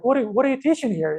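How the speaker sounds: hurried, stammered mock indignation; upset inspector. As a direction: fire off an exasperated question, acted lightly. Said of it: "was really upset".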